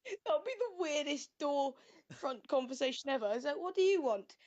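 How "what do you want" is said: put-on a quick, light Northern English accent; a mock Northern accent, asking about the crocodile. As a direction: play a chatty Northern neighbour at the door, quickly. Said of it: "that's from Plymouth, not from North".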